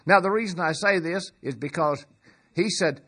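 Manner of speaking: ordinary talk, nothing marked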